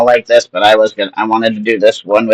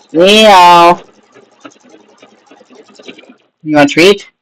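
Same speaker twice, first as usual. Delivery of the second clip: higher coaxing pet voice; talking to a cat; 7 semitones higher, 4 dB louder, much slower than usual. Real, not acted. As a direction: lure the cat with a treat.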